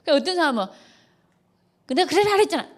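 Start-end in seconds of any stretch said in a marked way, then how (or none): 1.9-2.7 higher sarcastic yes-yes with a laugh; mock agreement to dodge the fight. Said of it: "이래".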